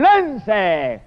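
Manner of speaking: long cried-out first word, then measured; mild declaimed cry of command; shouted command. Acted. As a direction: call out the order, stretching the first word. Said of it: "Y le gritan".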